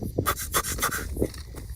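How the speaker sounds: breathy puffing rhino snorts; rhino noise. Acted. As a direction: imitate a rhino blowing air in short bursts. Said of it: "they usually go like".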